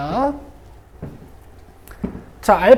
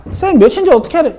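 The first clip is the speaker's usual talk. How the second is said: higher, louder imitation of a student; questioning student; 8 semitones higher, 5 dB louder than usual. Teacher mimics a student asking how to know, raised questioning voice. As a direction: pipe up as a student challenging the teacher.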